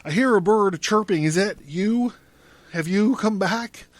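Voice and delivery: hopeful excitement at the bird's return; eager hope. Acted. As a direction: Carl eager to greet the returning bird. Hears the bird return.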